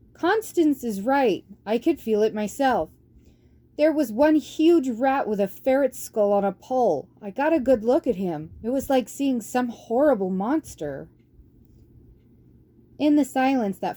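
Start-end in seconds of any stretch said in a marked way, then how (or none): 0.1-11.1 shouting. Acted. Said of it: "shouted aloud".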